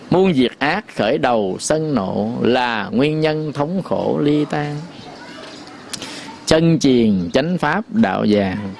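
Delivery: slow, measured chanting of a verse; verse recitation. Acted. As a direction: recite it slowly like a sacred poem. (ngâm thơ chậm rãi, từng chữ)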